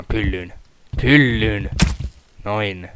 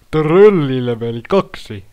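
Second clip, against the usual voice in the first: announcer voice; 3 semitones higher, 8 dB louder, slower than usual. Pretend. Announces next level jokingly.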